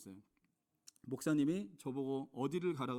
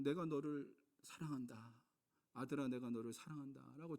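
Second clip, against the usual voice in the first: tender divine voice; 2 semitones lower, 5 dB quieter than usual. Retold or imitated. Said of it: "주님이 말씀하시는 거예요".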